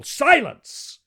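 very high, loud roar; furious Jedak roaring at the hall. Acted. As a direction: bellow for silence. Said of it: "roared Talhajas".

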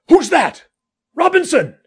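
high, loud call into the dark; shouting back. Acted. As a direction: shout the question back across a distance.

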